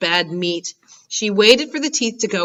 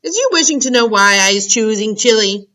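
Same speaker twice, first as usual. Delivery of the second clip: louder bragging giant; boastful giant; 3 semitones higher, 5 dB louder than usual. Acted. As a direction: gloat about the plan. Blood Bottler boasts.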